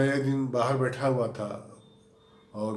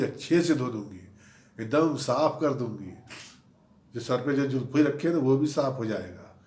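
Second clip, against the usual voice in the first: retold shouting. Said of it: "उसने चिल्ला के कहा".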